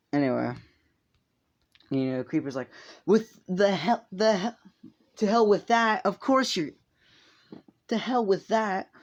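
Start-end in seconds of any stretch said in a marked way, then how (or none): 3.1-8.9 higher, stretched-out angry retort; indignant outburst. Retold or imitated. Creepa rejecting the visitor's excuse, indignant high outburst. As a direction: act out a scornful, raised-pitch protest.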